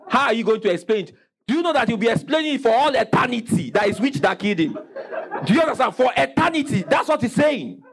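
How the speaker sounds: mock the sinner with glee; mock amazed. Preacher mocking a dead witch.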